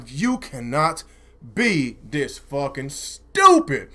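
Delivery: slow, low, drawn-out disbelief; exasperated disbelief. Retold or imitated. Streamer retelling his reaction to gamers, exasperated. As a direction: space the words out in exasperation.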